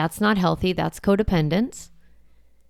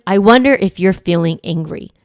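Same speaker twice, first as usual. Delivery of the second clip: gentle validating; 4 dB louder than usual. Shown as a demonstration. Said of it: "validate the emotion".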